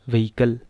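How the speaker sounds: व्हीकल as "vay-i-kul"; common mispronunciation. Shown as a demonstration. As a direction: say व्हीकल with an "ay" first vowel. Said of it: "लोग कहते हैं". (व्हीकल का आम गलत उच्चारण, "वेइकल")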